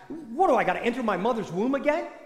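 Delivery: mildly mocking retort; lightly voiced sarcastic comeback; a touch of sarcasm from Nicodemus; a little sarcastic. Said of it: "he gets a little sarcastic".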